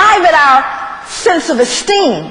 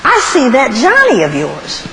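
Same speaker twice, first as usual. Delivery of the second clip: slave master's appraisal; 6 semitones lower than usual. Acted. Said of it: "they go".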